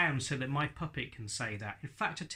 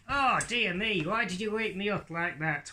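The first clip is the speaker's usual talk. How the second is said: much higher, louder puppet voice; indignant little puppet being woken; puppet Hadley, startled; 6 semitones higher, 3 dB louder than usual. Acted.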